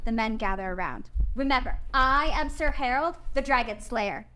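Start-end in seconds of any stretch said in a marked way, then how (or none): 1.4-4.3 louder, mock-heroic boy's voice; a lightly voiced child hero; boastful boy. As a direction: play a little knight facing a beast. Boy playing dragon slayer.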